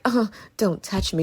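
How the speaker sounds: soft "uh" of distaste, then quiet brush-off; mild mock recoil. Imitating Ada brushing Leon off, softly put-off. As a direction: lightly imitate a quiet "don't touch me". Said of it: "she's not even like".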